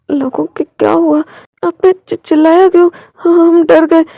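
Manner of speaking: protest, still frightened; upset kids' outcry. Acted. Kids shocked after the shout.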